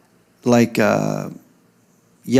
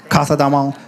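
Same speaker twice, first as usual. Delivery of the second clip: Spanish accent. Shown as a demonstration. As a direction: say "Casa Don Juan" with a Spanish th for s. Repeats name with Spanish lisp.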